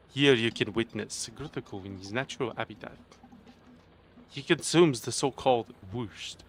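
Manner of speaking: mock-serious wildlife narrator, hushed and measured; nature documentary narrator. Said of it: "listen to a documentary by me".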